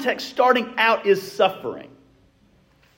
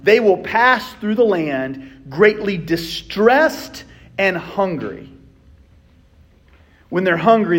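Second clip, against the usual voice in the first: solemn Bible reading, fading at the end; scripture reading. Acted. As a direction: let the verse darken as it goes. Reads scripture slowly.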